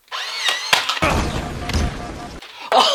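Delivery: high, helpless cackle; long breathless laugh; burst of laughter. Real, not acted. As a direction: crack up at a mishap. Dart hit a crew member.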